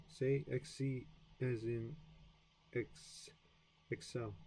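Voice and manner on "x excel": whispered try. Real, not acted. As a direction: whisper X to yourself. Whispered pronunciation attempt.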